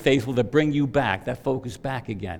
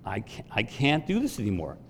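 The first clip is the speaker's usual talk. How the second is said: 1 weary prayer; 2 semitones lower, 6 dB quieter than usual. Retold or imitated. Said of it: "and I just said".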